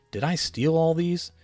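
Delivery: alarmed. A narrator's reading. Axel alarmed at presents.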